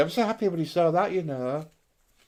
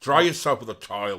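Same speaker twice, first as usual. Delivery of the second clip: low, louder put-on Irish accent; 6 semitones lower, 5 dB louder than usual. Shown as a demonstration. Finishing the party piece on request, put-on Irish accent. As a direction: deliver it in a playful Irish accent. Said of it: "Can you do your Irish accent?".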